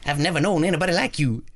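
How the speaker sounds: badly faked Southern American accent. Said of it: "that's my Southern American voice".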